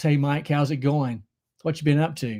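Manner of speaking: ordinary talk, nothing marked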